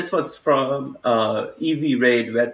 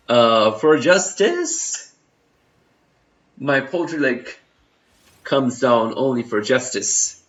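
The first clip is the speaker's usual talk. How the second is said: mock heroic; slower than usual. Mock heroic justice line.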